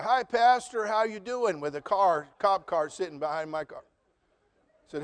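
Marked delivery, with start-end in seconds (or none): 0.0-1.6 higher, friendly call from a passing car; a church member cheerfully greeting his pastor from a car; cheery churchgoer. Retold or imitated. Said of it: "somebody from the church drove by".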